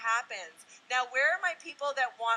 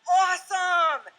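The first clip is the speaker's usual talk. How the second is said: excited cheer; 6 semitones higher, 9 dB louder, much slower than usual. Real, not acted. Cheering those who suck at it.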